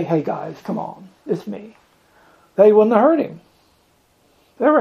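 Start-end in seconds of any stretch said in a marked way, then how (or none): 0.0-1.8 offhand murmur to friends; casual quiet call. Acted. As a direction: say it small, too quiet to carry. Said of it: "He couldn't just say".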